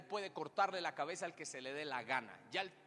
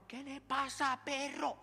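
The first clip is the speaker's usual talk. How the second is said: tough guy challenge; 10 semitones higher, 3 dB louder, slower than usual. Pretend. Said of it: "viene otro man".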